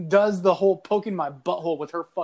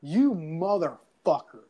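retold seething curse; slower than usual. His reaction to snapped sticks.

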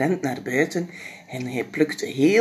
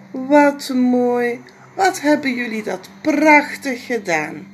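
higher, louder delighted praise; delighted mama; 8 semitones higher, 7 dB louder than usual. Acted. Mama delighted by the decorated chair. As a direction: gush over the children's work.

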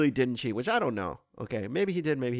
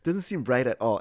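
dumb voice; 3 semitones lower than usual. Retold or imitated. Reading the player's quote in a dumb voice. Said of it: "I'm using this dumb voice".

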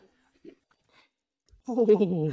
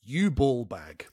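slow, spaced-out dictation; slow repeat; 2 semitones lower, slower than usual. Shown as a demonstration. Host repeating the words for the contestant, slow dictation. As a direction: give the phrase slowly, piece by piece. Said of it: "can you repeat those atrocious words".

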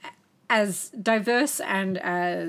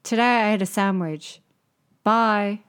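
terse, deadpan diary entry, a touch louder; a singer; 4 dB louder than usual. Acted. Host parodies a singer's minimal blog post, terse mimicry. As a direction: lightly mimic a man of few words, short phrases with pauses. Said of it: "a normal singer's, uh, J-Web goes like this".

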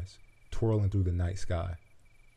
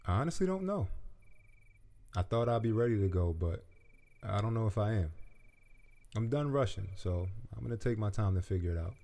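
uncertain butterfly; 2 semitones higher, 5 dB quieter than usual. A narrator's reading. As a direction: admit it quietly, unsure. Butterfly, higher and soft.

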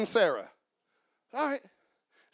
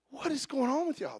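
Jesus, my version; 5 semitones higher, 6 dB quieter than usual. Retold or imitated. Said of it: "This is my version".

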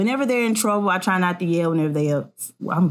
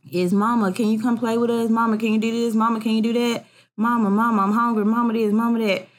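lightly voiced kids nagging for Mama, a little higher; pestering kids; 4 semitones higher, faster than usual. Kids all asking their tired mother for things, lightly mimicked pestering. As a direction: imitate children's insistent, repetitive begging.

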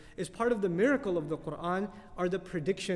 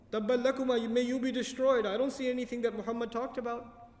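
sarcastic; 4 semitones higher than usual. Retold or imitated. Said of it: "making sarcastic commentary".

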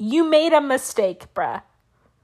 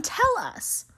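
high mock button voice; 9 semitones higher, 6 dB quieter than usual. Shown as a demonstration. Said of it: "So I hit the button".

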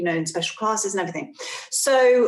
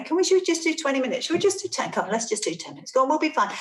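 coaxing; 5 semitones higher, much faster than usual. Retold or imitated. Coaxing daughter to read.

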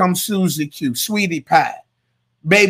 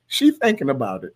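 laughing aside; 4 semitones lower, 6 dB quieter than usual. Retold or imitated. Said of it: "He said, as he was walking out".

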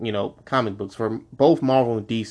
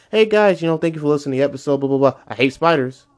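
mock podcast outro; faster than usual. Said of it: "every episode".

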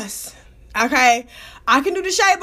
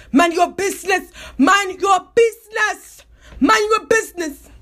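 insistent mock Nigerian accent. Rival telling off the speaker, imitated Nigerian accent. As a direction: repeat it as a comic Nigerian-accented retort. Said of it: "she was Nigerian".

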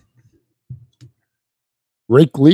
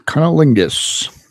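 drawn out, slightly higher; slow deadpan; 4 semitones higher, slower than usual. Acted. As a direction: say it slowly and deadpan. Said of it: "you can't start the show that way".

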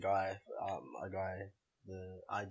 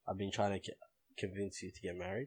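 that voice; 2 semitones lower, 5 dB quieter than usual. Real, not acted. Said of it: "Don't say it in that voice".

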